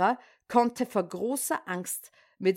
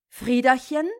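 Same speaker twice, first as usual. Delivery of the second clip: calling out; 2 semitones higher, 6 dB louder than usual. Acted. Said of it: "klopfte an ihres Mannes Fenster und rief".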